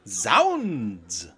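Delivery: very low mock-dramatic oath; deep comic exclamation.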